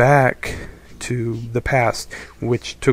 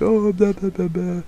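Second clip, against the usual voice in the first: mocking ditzy girl; 7 semitones higher than usual. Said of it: "she's like".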